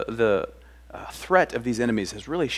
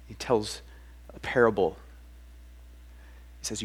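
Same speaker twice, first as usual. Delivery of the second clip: ordinary talk, nothing marked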